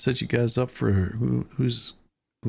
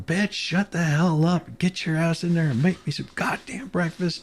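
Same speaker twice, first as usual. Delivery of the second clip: retold yell; 5 semitones higher than usual. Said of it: "He's yelling".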